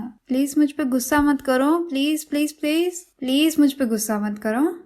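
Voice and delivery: lightly hammed-up begging lover; mock pleading. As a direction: beg him in a put-on childish whine. Makon begs Yai not be angry.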